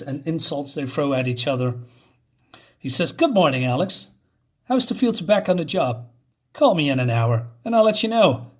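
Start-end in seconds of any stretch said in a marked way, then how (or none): 3.1-8.5 mock phone greeting, louder and higher; lightly acted banter. Cop answering a call from the FBI, lightly acted banter. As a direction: toss it off as a loud, raised-pitch quip.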